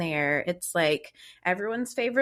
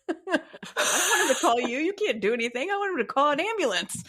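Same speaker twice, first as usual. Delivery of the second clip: mock indignant husband; 9 semitones higher than usual. Acts husband's insistent objection.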